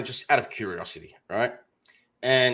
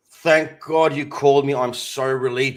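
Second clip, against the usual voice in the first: feigned relief; 7 dB louder than usual. Retold or imitated. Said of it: "I was acting really excited and relieved".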